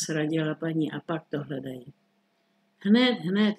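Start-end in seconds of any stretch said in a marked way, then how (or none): 2.8-3.5 mildly irritated, a little louder. Acted. Minister brushing off his wife's nagging, mildly irritated. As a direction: brush her off with mild irritation. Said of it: "řekl ministr podrážděně".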